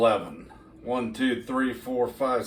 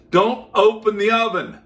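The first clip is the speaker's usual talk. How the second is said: louder, higher stern warning; emphatic warning; 8 semitones higher, 7 dB louder than usual. Real, not acted. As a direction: warn them firmly, like a strict cook.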